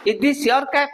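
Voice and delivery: "Is this your cap?" with modelled question tune; model question intonation. Shown as a demonstration. Teacher asks students to watch the tone, model intonation. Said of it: "pronunciation देखिएगा और tone देखिएगा".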